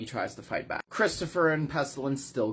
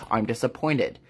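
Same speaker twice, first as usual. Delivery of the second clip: lightly voiced villain, disappointed; measured, dropping low at the end; Pestilence; 3 semitones lower than usual. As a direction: let down an unworthy opponent, lightly acted. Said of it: "Pestilence is just like".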